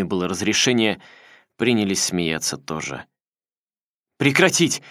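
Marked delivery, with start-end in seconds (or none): 4.2-4.8 a higher, louder cracking shout; voice breaking. A narrator's reading. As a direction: yell till the voice cracks. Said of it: "голос Фролова сорвался". (срывающийся голос)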